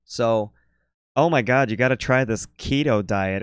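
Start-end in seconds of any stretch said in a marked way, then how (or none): 1.1-3.4 put-on posh New York accent. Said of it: "greatest New York posh Jewish woman voice".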